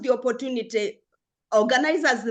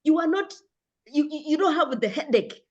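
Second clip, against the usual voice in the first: lightly voiced doctor, higher pitch; dismissive doctor; 6 semitones higher than usual. Doctor tells a patient they have no headache, mildly dismissive. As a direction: mildly mimic a doctor waving it off. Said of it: "the doctor tells you".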